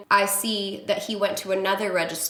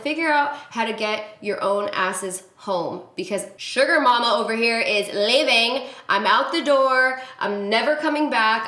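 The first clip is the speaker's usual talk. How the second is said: angry exit line. Retold or imitated. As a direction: slam the door with your voice. Storming out on them.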